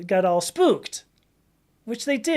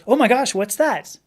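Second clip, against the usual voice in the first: imitating a startled guy, higher and louder; startled quote; 4 semitones higher, 6 dB louder than usual. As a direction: blurt it out in mock shock. Acted quote from the film.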